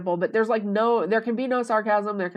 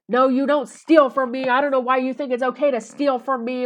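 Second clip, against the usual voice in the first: retold flip-out; 5 semitones higher, 5 dB louder than usual. Man flipping out over the word steal, mock indignant. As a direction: scold her in mock outrage. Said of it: "flipped out because I used the word steal".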